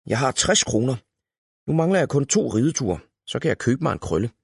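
glad. A narrator's reading. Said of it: "sagde hun glad".

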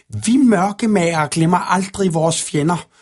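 high, menacing hissed villain voice; hissing dark-maker. A narrator's reading. Dark figure hisses into Anemone's face, menacing. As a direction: hiss it out as a sinister threat. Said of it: "hvæsede den ene".

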